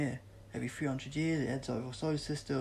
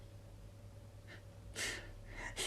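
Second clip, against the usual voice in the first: grim laugh; 10 dB quieter than usual. Acted. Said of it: "Sid laughed grimly".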